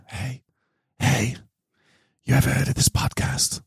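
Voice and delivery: soft whispered "hey, hey". Pretend. Urging listeners to tell a friend, in a whisper. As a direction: lean in and whisper it like a secret. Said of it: "just whisper in your friend's ear".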